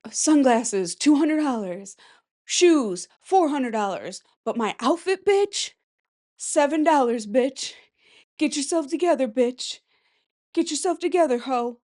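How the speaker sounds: a hint of a sassy street brag; a rapper impression. Vlogger doing a rapper's price brag, lightly imitated. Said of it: "first ancient TikTok of a rapper".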